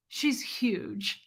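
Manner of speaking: whisper. Retold or imitated. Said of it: "And he was like".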